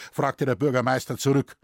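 plain reading voice

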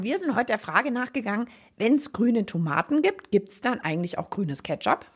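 talking with a mouth full. Real, not acted. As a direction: speak through a mouthful of food. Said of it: "Wir fassen mit vollem Mund ruckzuck zusammen".

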